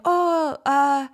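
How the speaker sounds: badly faked Italian accent; half-hearted try at an Italian accent; a hint of an Italian bellboy; attempted Italian accent. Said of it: "however the fuck you do an Italian accent".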